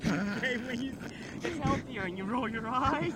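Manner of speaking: laughing. Real, not acted. Teasing laughing.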